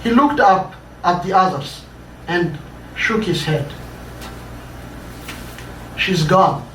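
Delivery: measured, dramatic read-aloud narration; story reading. A narrator's reading. Author reading his own story to an audience, dramatic narration. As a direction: tell the tale to a listening audience.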